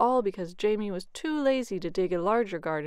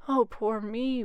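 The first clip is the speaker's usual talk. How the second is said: louder, hammed-up wail of self-pity; 3 semitones higher, 5 dB louder, slower than usual. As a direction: wail like a lazy man fearing hunger. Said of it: "wailed Jamie".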